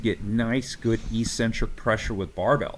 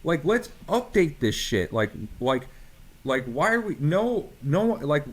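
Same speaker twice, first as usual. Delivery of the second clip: exasperated, higher-pitched plea; emotional rant; 4 semitones higher than usual. Real, not acted. Coach venting to interviewer about outdated barbells, emotional rant. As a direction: get worked up, pitch jumping on key phrases. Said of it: "sorry if I'm getting a little, uh, emotional".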